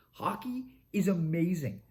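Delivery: slow hushed whisper of awe; awed whisper. Real, not acted. Hyped fan to viewers, slow awed whisper. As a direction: breathes it out like a secret.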